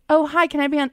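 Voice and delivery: sweetly put-on hello on a call; mock business call. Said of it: "You think S N L's gonna like this?".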